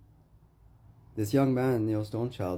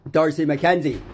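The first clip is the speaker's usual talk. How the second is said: shouting his name; 8 semitones higher, 11 dB louder than usual. Real, not acted. A speaker shouting the name of the man who owes him, loud. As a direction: bellow the name high and loud.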